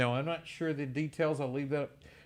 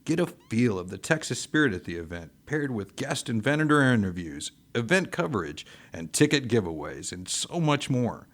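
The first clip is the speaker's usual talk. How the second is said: radio ad read. Acted. Recorded radio promo.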